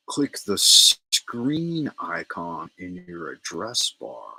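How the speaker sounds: slowly, word by word, stressing "screen"; slow re-read. Shown as a demonstration. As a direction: spell the instruction out slowly for viewers.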